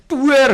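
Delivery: loud, high mimicked crash; imitated bang. Customer's bank book hurled at the employee, imitated bang. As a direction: voice the slam of a thrown book.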